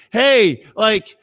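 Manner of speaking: loud, then slow lazy drawl; mock easygoing shrug; mock lazy Jesus. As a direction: act out a careless, no-hurry Jesus. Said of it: "Jesus isn't saying".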